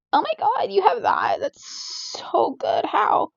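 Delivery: high-pitched imitation of amazed classmates; mock gushing. Girl mimics people reacting to her grades, mock gushing.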